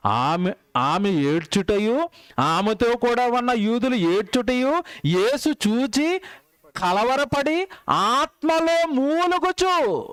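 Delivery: slow, rising, preached scripture read; slow fervent Bible reading; solemn scripture reading. Acted. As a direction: draw each word out like a pulpit reading. Reads scripture slowly.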